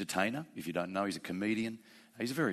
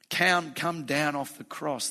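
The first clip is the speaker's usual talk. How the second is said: a hint of a jeering crowd, louder and slow; mocking jeer; 6 semitones higher, 7 dB louder, slower than usual. Arrogant human jeering at Jesus on the cross, mock taunt. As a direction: taunt him slowly from below the cross.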